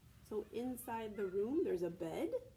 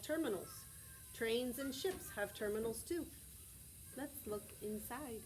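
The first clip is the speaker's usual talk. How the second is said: steady read-aloud from the book; reading to children. Acted. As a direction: read the page aloud to the class. Reads picture book to class.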